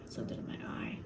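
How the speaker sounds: unvoiced whisper to herself; whisper to self. Real, not acted. Vlogger breaking off her rant to whisper about her eye. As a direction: breathe it out under your breath, no voice. Aside while crying/rubbing eye.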